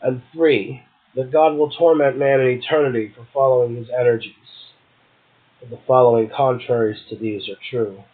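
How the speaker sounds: measured, solemn reading of Blake; poetry reading. Acted. Host reads Blake's devil passage to his guest, in a measured recital.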